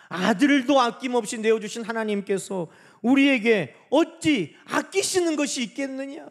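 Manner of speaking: loud, emphatic pulpit quotation; declaimed scripture. Acted. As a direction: proclaim the verse as a ringing question.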